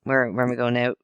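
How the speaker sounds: casually imitating total indifference; mock disinterest. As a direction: brush it off as if none of it matters. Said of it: "like she's totally disinterested".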